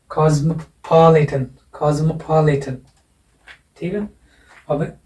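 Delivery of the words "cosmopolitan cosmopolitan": "cosmopolitan" said twice with the stress on POL; stress demonstration. Shown as a demonstration. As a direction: lean on POL in "cosmopolitan", slow and deliberate. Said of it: "तो यहाँ लग जाएगा".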